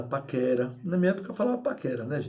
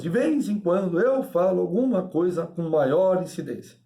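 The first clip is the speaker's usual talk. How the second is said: slow, deliberate weight on "maior incidência"; "maior incidência" spoken slowly and with emphasis; emphatic delivery. Shown as a demonstration. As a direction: lean on "maior incidência", drawing it out. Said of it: "a chamada intensidade de voz".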